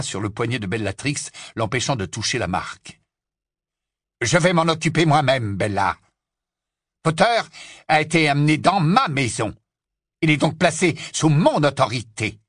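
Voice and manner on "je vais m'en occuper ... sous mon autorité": raised, indignant insistence; asserting authority. Acted. Man insists the captive is under his authority, asserting. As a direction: pull rank, leaning on each claim.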